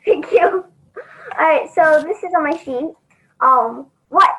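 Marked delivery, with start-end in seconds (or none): 4.1-4.3 slow, muffled sponge voice; drawn out like a squeaky sea sponge. Real, not acted. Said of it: "I sound like a sponge".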